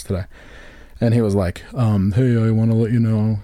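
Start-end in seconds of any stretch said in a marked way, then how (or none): 2.1-3.4 a light imitation of an awkward employee; Steve's voice. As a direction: mimic the coworker, barely changed. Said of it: "that's how he sounds when he talks".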